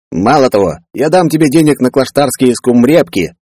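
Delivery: a hammed-up apology to Boril; Peller voiced.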